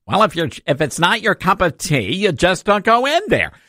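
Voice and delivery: imitating a Connecticut accent. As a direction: put on a touch of a Connecticut accent. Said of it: "the Connecticut accent".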